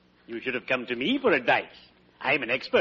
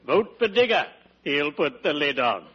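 slogan voice. Retold or imitated. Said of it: "my wonderful slogan".

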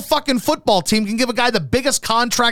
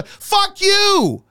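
angry slow curse; 8 semitones higher than usual. Real, not acted. Ranting at sports media.

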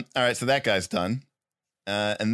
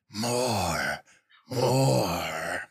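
low menacing whisper of more; a hungry evil voice calling; dark evil voice; 5 semitones lower, 3 dB quieter, much slower than usual. Acted. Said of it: "A dark, evil voice".

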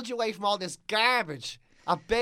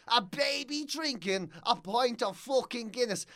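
mock shock; 5 semitones higher, slower than usual. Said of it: "and it was like".

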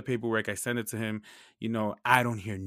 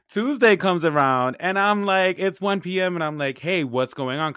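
higher and louder, slowed retelling; rising frustration in the telling; worked up; 8 semitones higher, 8 dB louder than usual. Real, not acted. Building frustration retelling the wait.

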